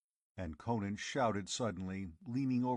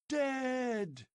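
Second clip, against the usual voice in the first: crowd shout. Acted. Tribesmen shouting the news at Conan, furious. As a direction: fling it at him. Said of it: "voices assured him".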